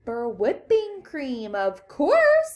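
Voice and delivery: slow start, then high loud finish; as if obvious. A narrator's reading. Wonka answering Veruca's question, emphatically obvious. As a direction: leap up on "of course".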